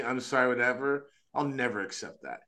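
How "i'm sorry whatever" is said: fake apology. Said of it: "or you say to me".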